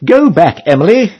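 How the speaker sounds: put-on girl's voice. A narrator's reading. One girl sending Emily back, lightly voiced girl. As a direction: speak like one of the towing girls. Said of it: "says one".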